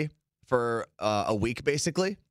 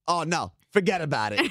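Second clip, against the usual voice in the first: put-on New Jersey accent; 4 semitones higher than usual. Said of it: "I actually heard the phrase".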